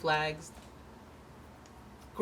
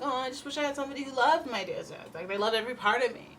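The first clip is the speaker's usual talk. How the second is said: mock self-pity; 7 semitones higher than usual. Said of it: "that thing where I'm like".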